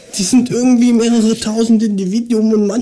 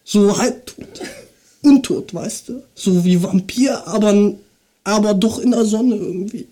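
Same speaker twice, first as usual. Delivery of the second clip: verpeilter Kiffer, leise und tief; 2 semitones lower than usual. Acted. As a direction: spiel einen bekifften Typen. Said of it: "ich mach eine Kiffer nach". (Kiffer-Stimme)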